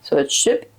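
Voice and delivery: hiccup cutting the words; speaking through hiccups. Real, not acted. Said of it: "sorry, I have the hiccups".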